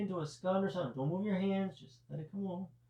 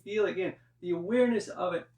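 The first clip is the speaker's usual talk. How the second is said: yelling; 4 dB louder than usual. Real, not acted. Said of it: "I don't know why I'm yelling".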